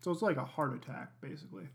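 talking through a mouthful of cookie; mouth full. Real, not acted. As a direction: speak round a bite of food. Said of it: "you're talking with your mouth full".

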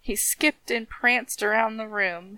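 lilting storybook reading; rhythmic story narration. A narrator's reading. Reading how the dead man danced, rhythmic story narration. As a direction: let the list of rattling parts roll along.

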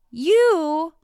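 loud, high, hammed-up call-out; mock bold accusation. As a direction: declare it boldly, drawn out, with a laugh breaking in. Retold bold confrontation, laughing.

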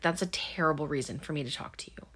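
fast, whispered deadpan put-down; imitating a grumpy ex-sheriff turning visitors away; dry whisper. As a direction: toss the refusal off under your breath. Dewey grumbling at door, whispered.

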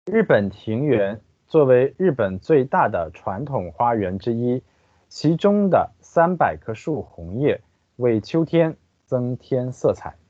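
careful Chinese read-aloud; guide narration. Acted. Translator reading the park guide to listeners, formal narration. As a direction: read out each phrase evenly and distinctly.

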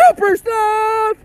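high, slow heroic proclamation; superhero voice. Acted. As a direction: proclaim the hero's name. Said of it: "Everybody should have a superhero voice".

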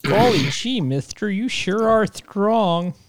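put-on gee-whiz kid voice, slow on the end; starry-eyed kid marveling; wholesome 1950s kid. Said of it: "solid Hercules reference".

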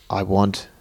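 slow, drawn-out sing-song imitation; mock sing-songy. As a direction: draw it out like a hammy film villain's demand. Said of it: "a sing-songy way".

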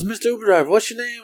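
put-on chatty passenger voice; imitated female passenger. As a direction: lift the voice high to mimic her. Acts out tipsy girl in back seat.

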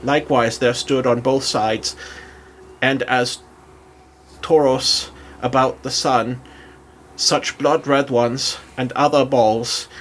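put-on German accent. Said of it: "do a German accent as I read".

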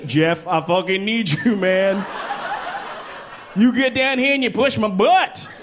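high, whiny plea to a friend; pleading buddy voice. Acted. Begging his friend Jeff for help, high whiny voice.

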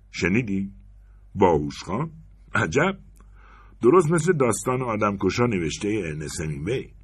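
"باهوش خان" echoed with a rising smirk; mocking echo. Anders to the woman, mocking the robber's "باهوش خان" with a rise. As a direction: play the robber's phrase back, amused.

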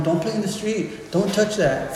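put-on a parent telling kids to stay safe; warning a child. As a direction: caution the little ones like a parent.

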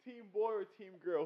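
asked through a laugh. Real, not acted. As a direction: laugh while repeating the question. Repeats question, laughing.

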